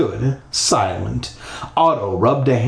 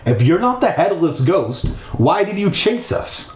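demanding; 5 semitones higher than usual. Acted. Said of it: "I demanded".

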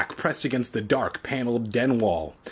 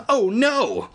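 high, alarmed oh no; startled, horrified gasp of words; horror; 11 semitones higher than usual. Acted. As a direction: panic rising in the throat. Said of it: "Evan thought in horror".

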